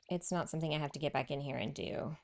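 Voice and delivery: fast whispered aside; whispering. Real, not acted. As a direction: whisper it quickly to yourself. Whispered aside while building.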